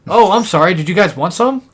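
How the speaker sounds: lightly acted oh-so-sorry offer; mock apology. Willie to the freaked-out Aqua Teens, mock apologetic. Acting out cartoon character's offer.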